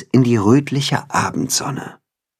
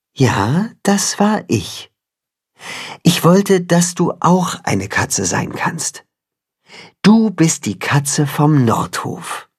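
lightly voiced tender cat, higher; cat mother voice; 7 semitones higher than usual. The cat tells Timme how she raised him, lightly voiced. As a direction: tell it like a caring mother.

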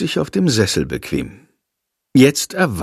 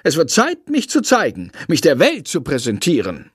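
lightly voiced bat, higher, pleased and grand; a small bat praising the boy for his choice; 9 semitones higher than usual. A narrator's reading. The bat Shandor praises Jendrik, proud and higher.

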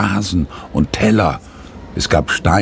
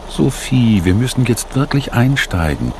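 raised, careful teacher voice; gentle urging; 5 semitones higher than usual. A narrator's reading. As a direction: coax a child gently, pitched a little higher. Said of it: "sagt ihre Lehrerin behutsam".

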